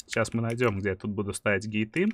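ordinary talk

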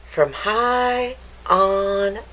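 put-on lively storybook read-aloud for kids; picture-book narration voice; reading to children. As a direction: read it like story time for little ones.

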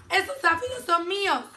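high, loud possessive cry; grumpy shout. A narrator's reading. Grumpy ladybug claiming the aphids, shouting. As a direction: claim it loudly, like a cross character. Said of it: "le gritó la mariquita malhumorada".

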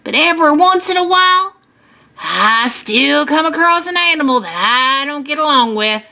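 put-on lilting old-hand farmer; folksy farmer. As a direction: tell kids about a life with animals. Farmer goes on talking.

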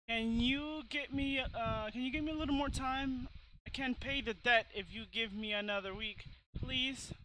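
lightly voiced old lady, begging; pleading old lady.

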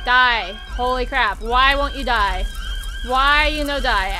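loud, frustrated outburst; exasperated game rage. Pretend. Gamer attacking someone who won't die, exasperated shouting. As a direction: push each line out loudly in frustration.

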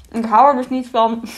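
talking with a mouthful; mouth full. Real, not acted. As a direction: say it round a bite of food. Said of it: "met volle mond te praten". (met volle mond praten)

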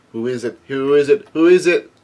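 lightly acted growing curiosity; curious crowd chatter. Crowd voices as ship arrives.

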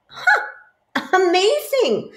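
very high, loud astonished huh; be truly wowed; mock amazement. Gruffalo marvels at the mouse in hammed-up amazement.

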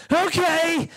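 hope it works without quite believing; tentative hope. Retold or imitated. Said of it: "But faith at the same time goes".

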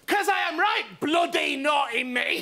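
put-on shouty cheeky puppet boy; lightly voiced puppet boasting; naughty puppet voice. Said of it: "Why did they call you Naughty Keith?".

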